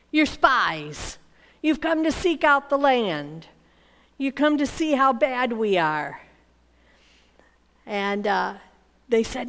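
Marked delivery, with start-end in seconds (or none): 0.1-6.2 mildly harsh accuser, firm and direct; a touch of harshness; harsh accusation. Acted. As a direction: accuse them sternly, without shouting. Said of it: "he spoke harshly to them".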